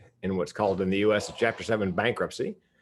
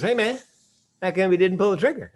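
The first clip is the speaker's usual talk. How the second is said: higher, louder, let-down hey man; mock disappointed; 11 semitones higher, 6 dB louder than usual. Friend after the keynote, asking in mock disappointment. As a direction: sound let down that he survived. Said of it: "could you try to sound slightly less disappointed".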